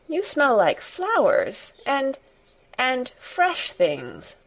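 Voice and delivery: put-on high, slow and delighted, a Yorkshire-free boyish joy; joyous cry. A narrator's reading. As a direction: breathe it out in delight. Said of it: "he cried out quite joyously".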